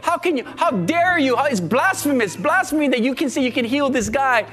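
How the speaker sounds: lightly acted indignant religious leaders; a touch of scandalized scoffing; mocking accusers. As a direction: challenge it with mild mock outrage. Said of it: "that mocked you and say".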